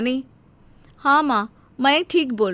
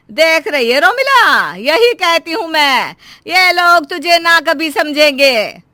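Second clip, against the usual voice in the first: higher, louder, slow reproach; indignant scolding; 5 semitones higher, 4 dB louder than usual. Acted. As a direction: drive each word home to the daughter. Mother rails at in-laws.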